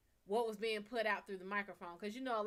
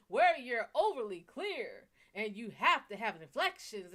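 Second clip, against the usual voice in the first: lightly put-on stage voice, loud and overly clear; announcer voice; 5 dB louder than usual. Shown as a demonstration. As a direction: lean into each inflection like an announcer. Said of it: "Stage voice is like announcer voice".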